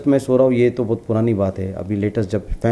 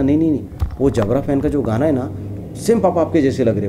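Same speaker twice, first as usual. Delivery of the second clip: put-on child's voice; 5 semitones higher than usual. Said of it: "तो बोलता".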